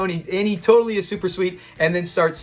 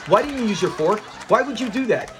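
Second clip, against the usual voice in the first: higher-pitched nagging complaint, retold; mock bickering; 4 semitones higher than usual. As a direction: bicker like half of a married couple. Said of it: "they start bickering just like some married couples".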